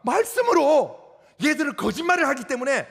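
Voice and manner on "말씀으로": 말씀으로 drawn out slowly and loud; slow emphatic answer. Real, not acted. Preacher answering his own question, slow and loud. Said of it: "뭘로 싸웁니까?".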